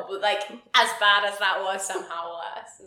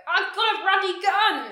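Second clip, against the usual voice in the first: a laughing, higher mock yell of the line; laughing mock shout, pitched up; mock gun-nut shout; 9 semitones higher, 5 dB louder than usual. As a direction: ham up a trigger-happy character with a laugh. Quoting gun-loving character.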